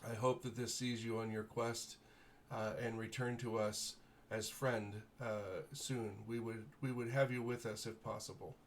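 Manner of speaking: lightly voiced noble lord, grateful and formal; gracious baron. Baron thanking the heroes for rescuing his daughter, lightly voiced noble. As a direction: thank them with stately warmth.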